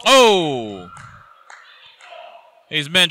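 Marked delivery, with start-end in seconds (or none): 0.0-0.9 surprised shout. Real, not acted. Live wrestling play-by-play call.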